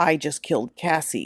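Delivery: ordinary delivery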